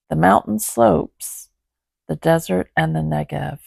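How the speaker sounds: measured, even Bible reading; scripture reading. Acted. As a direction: read the passage steadily aloud. Reads Bible passage aloud.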